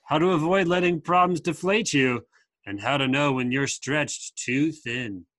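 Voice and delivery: lightly voiced surfer; a hint of surfer dude. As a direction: read it as a surfer, slowing to the end. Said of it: "your best surfer voice".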